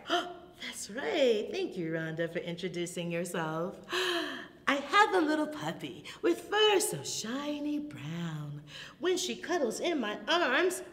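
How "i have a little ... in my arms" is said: higher, lilting storytime verse; singsong rhyme for little ones; children's rhyme recitation. Acted. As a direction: recite a puppy rhyme for toddlers.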